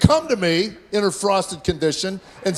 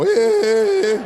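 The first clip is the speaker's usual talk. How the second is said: shouted hey; 5 semitones higher, 4 dB louder than usual. Retold or imitated. Son yelling at dad.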